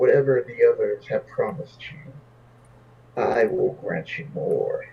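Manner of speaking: put-on demon voice. Narrating a game, a demon speaks only to Greg: Nalfashine demon voice. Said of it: "you hear the demon's voice".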